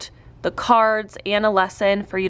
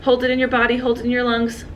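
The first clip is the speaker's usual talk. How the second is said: calm breathing cue; 3 semitones higher, faster than usual. Shown as a demonstration. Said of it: "sometimes I like to say".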